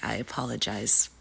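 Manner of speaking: talking through a head cold; sniffly, blocked-nose voice; stuffy nose. Real, not acted. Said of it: "I am sniffly today".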